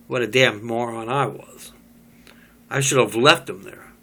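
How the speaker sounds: bitter whisper to himself; whispered aside. Acted. Job cursing himself under his breath, whispered.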